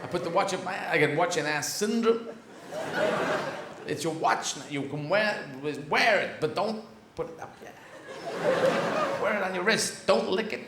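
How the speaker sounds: a hint of Walken doing the Pulp Fiction watch speech; halting, oddly stressed Walken storytelling; mild Walken impression, words broken by pauses; lightly voiced Christopher Walken. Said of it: "This is Christopher Walken".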